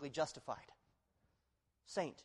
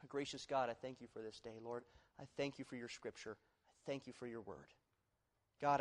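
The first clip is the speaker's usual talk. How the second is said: closing prayer. Acted.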